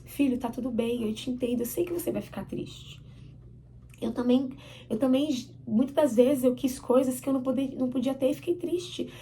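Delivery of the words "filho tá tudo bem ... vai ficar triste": lightly acted comfort, softening at the end; understanding parent. Parent to son who was told no, gentle reassurance. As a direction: gently acknowledge a child's sadness. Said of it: "a gente começa a projetar nos nossos filhos".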